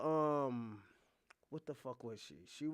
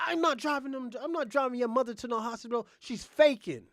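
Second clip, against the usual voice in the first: higher, louder, fast indignant refusal; indignant mock refusal; 7 semitones higher, 6 dB louder than usual. Wife refusing to drive the mother, loud indignant mock. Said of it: "She's like".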